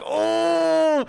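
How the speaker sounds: high, sudden startled gasp of a word. Retold or imitated. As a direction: jump at the sight of the lights. Startled by police lights.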